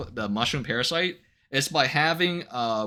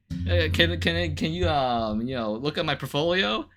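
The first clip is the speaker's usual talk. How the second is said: mock commission spammer; 3 semitones higher than usual. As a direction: ham up the sleazy sales pitch disguised as small talk. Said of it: "Be like".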